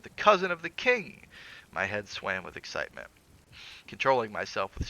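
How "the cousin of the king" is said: high, loud proclamation; cried out. A narrator's reading. Mister Wilde pointing at the narrator, loud triumphant cry. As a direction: crow it out triumphantly. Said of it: "pointing to me cried".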